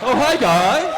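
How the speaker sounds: high, loud mock-casual greeting; imitated chill man. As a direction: imitate an oblivious, easygoing friend saying hello. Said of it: "the most chill man in the world".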